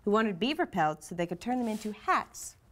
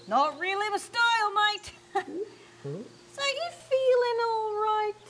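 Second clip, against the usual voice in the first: high squeaky teasing; 13 semitones higher, 4 dB louder, slower than usual. Acted.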